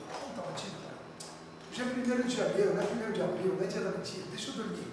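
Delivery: faking sleepy. Pretend. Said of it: "eu fingi que eu tava lá".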